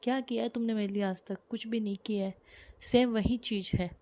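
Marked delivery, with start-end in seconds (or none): 0.0-2.3 resentful. Shown as a demonstration. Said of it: "अपन question भी खुद बोल रहे हैं".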